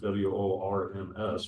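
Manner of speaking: W O R M S, letter by letter; W O R M S said as separate letter names; spelled out. Shown as a demonstration. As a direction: spell W O R M S aloud, naming each letter. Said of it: "I say worms, not".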